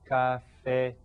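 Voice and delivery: "Cafetería" in separate syllables, leaning on "rí"; careful demo of "Cafetería", accented "í" held; stress on the accented í. Shown as a demonstration. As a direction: break up "Cafetería" and stretch the "rí". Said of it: "so we stress that".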